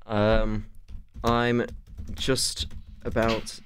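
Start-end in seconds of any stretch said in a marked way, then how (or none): 1.2-3.6 put-on Egyptian accent. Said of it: "In Egyptian accent".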